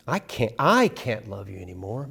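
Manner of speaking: "I" leaned on and lifted above the rest; weight on "I", as if someone else could; stress on I. Shown as a demonstration. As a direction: hit the word "I", then run on through "can't love you anymore". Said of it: "Emphasize individual words in the title, starting with the first one".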